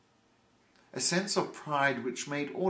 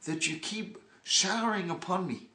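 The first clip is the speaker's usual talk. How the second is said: higher, mock-effusive gratitude; gracious thanks; 4 semitones higher than usual. Yidel thanks the hooligans while paying less, effusive. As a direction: lay on the thanks with a smile. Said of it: "he says".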